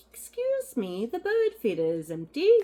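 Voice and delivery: high, loud put-on complaining voice; mock indignant complaint. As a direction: call out the complaint in a hammed-up voice. Voices a funny stitched piece's caption.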